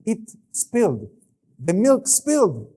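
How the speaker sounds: put-on high, drawn-out little-kid voice; slow, high-pitched child's excuse; small child reporting. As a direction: imitate a kid announcing an accident. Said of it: "they start speaking like this".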